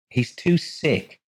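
slow and firm, leaning on "too"; "too"를 힘주어 천천히 단호하게; firm repeat. A narrator's reading. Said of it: "Rose repeated firmly".

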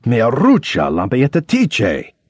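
mock Italian curse, slow at the end; fake Italian yell. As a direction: shout gibberish Italian at a cyclist. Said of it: "yelled something like".

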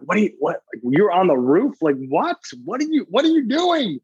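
high, exasperated mom voice climbing to a shriek; frustrated mom. Retold or imitated. Mother scolding her son for being on the roof, exasperated. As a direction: imitate a mom who can't believe it. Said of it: "she was just frustrated".

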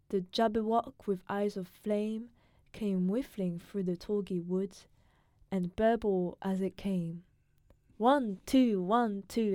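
put-on steady, careful recitation in his British accent; poem reading. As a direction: read the poem out as a cultured foreigner would. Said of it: "You wanna try reading it really quick?".

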